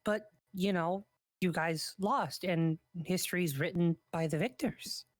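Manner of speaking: talking with a mouth full; speaking through a bite of sushi. Real, not acted. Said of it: "talking with my mouth full a little bit".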